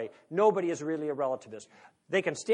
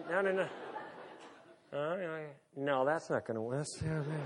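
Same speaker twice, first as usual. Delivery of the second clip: softer, half to himself; a lightly imitated grumble under his breath; mock mumbling; 2 semitones lower, 7 dB quieter than usual. Speaker imitates Gil mumbling to himself, lightly softer. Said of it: "I can hear him mumbling to himself".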